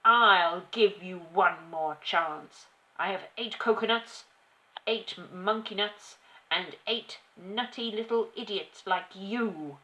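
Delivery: shouting tyrant. A narrator's reading. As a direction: berate the child, drawing out each insult. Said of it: "shouted the Trunchbull".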